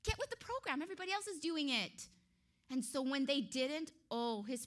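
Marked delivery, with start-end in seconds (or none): 0.0-2.1 coaxing king. Acted. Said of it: "he was giving them a chance".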